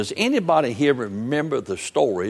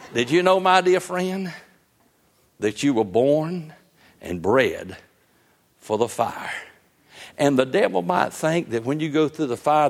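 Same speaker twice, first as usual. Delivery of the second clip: preaching. Acted. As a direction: drive the point home to the congregation. Preaches the application.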